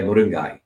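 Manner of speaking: moringai in the Tamil way, ending in -gai; Tamil pronunciation. Shown as a demonstration. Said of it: "so G A Y".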